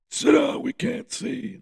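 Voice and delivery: high, strained heckler's complaint; mock crowd yelling. Seated concertgoers complain to the fan blocking them, mock high-pitched yell. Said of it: "everyone's kinda yelling at me".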